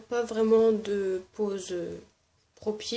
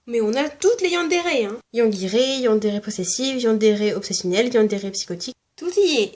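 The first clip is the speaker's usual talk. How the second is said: excited; 4 dB louder than usual. Real, not acted. Excited list of yandere types.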